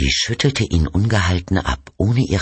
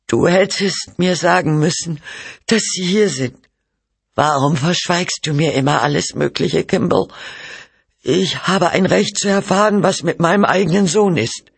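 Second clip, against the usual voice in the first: very high, indignant wife; outburst of anger; 12 semitones higher than usual. A narrator's reading. Mother demands truth about her son, angrily. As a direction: accuse him in a high, angry voice. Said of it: "Nach ihrem Zornesausbruch".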